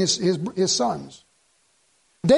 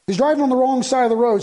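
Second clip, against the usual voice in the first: higher and louder, hitting "driving"; emphatic repeat; 5 semitones higher, 4 dB louder, faster than usual. Acted. Pastor tells church about the drunk driver, raised and emphatic. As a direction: drive home the horror.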